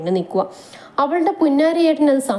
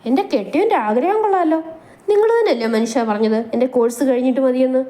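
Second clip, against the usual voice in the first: higher, playful mocking wife; teasing wife; 3 semitones higher than usual. Mahi teases Manu about his hopes, higher and playful. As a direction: laugh him off gently.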